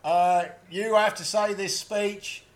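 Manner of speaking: quick Aussie demo line; Australian accent. Shown as a demonstration. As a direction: toss off a broad Australian cobber. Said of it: "just say".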